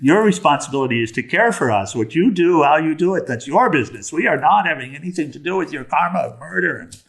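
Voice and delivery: lightly voiced scolding wife and daughter; indignant wife. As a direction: firmly push the blame back on him. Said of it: "talks with his wife and his daughter".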